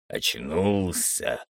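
low, slow mocking drawl; a gloating torturer, dragging it out; sinister baron, slow. Baron mocks the waking prisoner.

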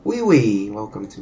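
mock French accent. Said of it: "you guys want me to do a French accent".

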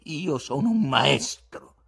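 loud, high and drawn out; dark, threatening declaration. A narrator's reading. Darkened guest threatening Ivan, proud and menacing. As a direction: proclaim it slowly and forcefully, as a threat. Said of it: "si incupì e minacciò Ivan".

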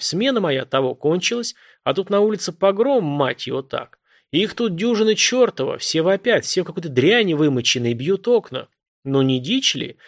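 a hint of a confident, rough man's voice; lightly voiced self-assured caller; a caller telling the cop what's what, lightly voiced; authoritative man.

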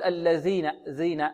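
ذ in الذين with tongue against the back of upper teeth; faulty "dh" in الذين, tongue not protruding; student's hidden-tongue ذ. Retold or imitated. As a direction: imitate a muffled ذ in الذين, tongue tip kept in. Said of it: "يكون لسانه يلامس الصفحة الداخلية للثنايا".

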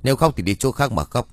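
a mild, understated scolding. Acted. Tân scolding the crying woman, mild scold. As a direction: snap at her to stop crying, lightly. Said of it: "lão lại quát lên".

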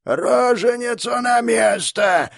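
high, slow, loud monster shout; monstrous keeper screaming the order again; repeated monstrous scream. Acted. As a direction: bellow the order like a beast. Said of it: "повторился крик".

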